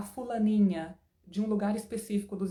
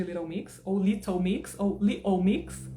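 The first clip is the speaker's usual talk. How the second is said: the band name with flap, then dropped t, louder; accent variants; 4 dB louder, slower than usual. Shown as a demonstration. Teacher joking about accents of a band name. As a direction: say the band name three ways. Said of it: "várias pronúncias".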